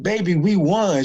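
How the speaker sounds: high, slow, loud "we won"; excited, slow announcement. Retold or imitated. Husband telling his wife they won, high and thrilled. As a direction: break the news to the wife with joy. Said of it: "I said".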